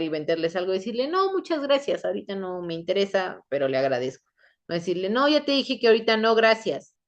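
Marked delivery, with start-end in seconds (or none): 1.1-4.3 polite refusal. Shown as a demonstration. Someone turning down a seller, polite and appreciative tone. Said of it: "el tono es lo que cambia". 5.1-6.9 impatient brush-off, pitched up; curt refusal. Shown as a demonstration. Someone refusing a seller who insists, curt and irritated tone. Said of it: "el tono es lo que cambia y es lo que genera la incomodidad".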